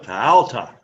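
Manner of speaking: "Tau ta" with a long, stressed Tau; emphasis demo. Shown as a demonstration. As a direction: lean on Tau, let ta drop away. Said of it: "the emphasis is on what?".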